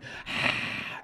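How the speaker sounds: mimicked exhale without voice; imitated sigh. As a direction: imitate a soft, breath-only sigh. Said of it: "instead of going".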